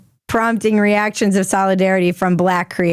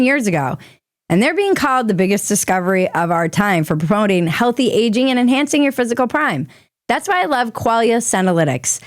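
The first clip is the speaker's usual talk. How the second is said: ad read. Acted. Host reads sponsor ad.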